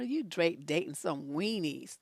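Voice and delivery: ordinary delivery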